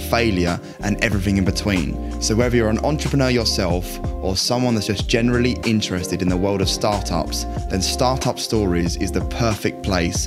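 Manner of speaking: scripted, polished show welcome; podcast intro read. Real, not acted. Host welcomes listeners to startup stories podcast, scripted intro read. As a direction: read the show's opening to listeners.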